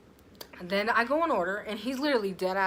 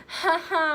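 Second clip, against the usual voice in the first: fake crying; 9 semitones higher, 8 dB louder than usual. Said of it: "I was fake crying".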